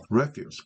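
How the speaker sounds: "refuse" with the stress on the first syllable, REF-use; noun stress. Shown as a demonstration. Teacher showing students the noun "refuse", stressed up front. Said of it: "강세가 앞에 있죠".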